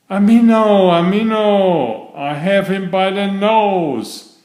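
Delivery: high, loud gleeful cry of a catch; excited cry. A narrator's reading. Frog on his boat crying out over a bite, excited. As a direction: shout it out like a frog who hooked a fish. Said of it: "cried Mister Jeremy Fisher".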